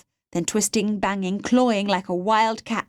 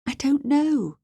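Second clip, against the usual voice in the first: higher, mildly distressed voice; distressed denial; 7 semitones higher, slower than usual. A narrator's reading. Captive girl answers the man questioning her, mild distress. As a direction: deny it helplessly, pitch raised.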